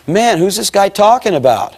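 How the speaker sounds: high-pitched, puzzled inner outburst; acted bewilderment. Young man in the balcony hearing his life described, bewildered. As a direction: wonder aloud in mock bewilderment.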